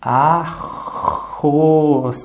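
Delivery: "arroz" stretched as a-rroz; drawn out by syllables. Shown as a demonstration. Teacher stretches the word for a child. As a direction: sound out "arroz" slowly for the child. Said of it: "a, o, a, o".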